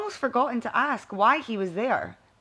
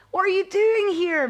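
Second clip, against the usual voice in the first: higher, louder sudden astonishment; surprised; 10 semitones higher, 6 dB louder than usual. A narrator's reading. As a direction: blurt it out in shock. Surprised to see mentor.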